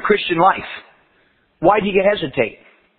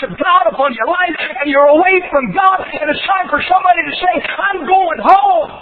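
preaching at full force; 9 semitones higher than usual. Acted. Preaching climax.

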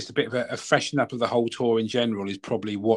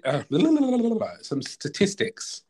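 laughing; 9 semitones higher, much slower than usual. Real, not acted. Cracks up mid-sentence.

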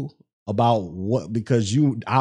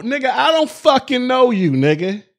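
heated rant; 5 semitones higher than usual. Real, not acted. Ranting at rude donor.

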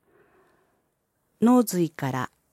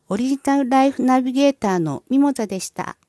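put-on high, quick refined young lady voice; haughty rich girl japanese; 7 semitones higher, faster than usual. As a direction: sign off like a posh heiress. Host's elegant sign-off greeting.

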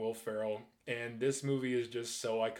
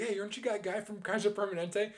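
Paul Rudd impression; 8 semitones higher than usual. Paul Rudd quoted with "he's like.

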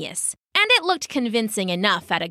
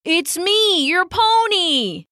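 persuasive; 10 semitones higher, 4 dB louder, slower than usual. Acted. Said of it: "employing all his powers of persuasion".

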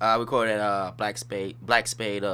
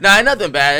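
louder, laughing through the words; 9 semitones higher, 12 dB louder than usual. Real, not acted. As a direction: laugh it off, it's all love. Laughing while reassuring.

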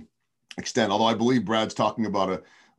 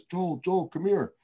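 put-on calling out in a thick Latin American accent, much higher; Salvador Perez's thick accent; 10 semitones higher, slower than usual. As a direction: shout his name across the lot in a heavy Latin American accent. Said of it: "it's in his thick accent".

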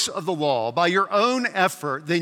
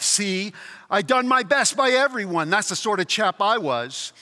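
indignant self-justifying ghost, pitched up on key claims; rough ghost; 3 semitones higher than usual. Acted. Ghost defends his life to heavenly friend, rough and indignant. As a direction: plead your record like an affronted chap. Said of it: "These are two very rough characters".

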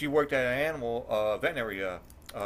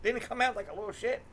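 incredulous retort; 10 semitones higher than usual. Retold or imitated. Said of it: "I'm like".

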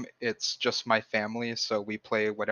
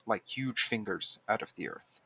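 story narration. A narrator's reading. Reads a fiction passage aloud.

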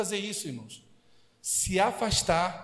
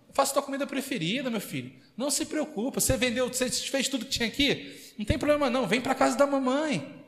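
higher, sugary mock mother voice; imitating mother; 4 semitones higher than usual. Mother luring son home with food, higher mock coaxing. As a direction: coax him home like a doting mom. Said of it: "Mexe logo".

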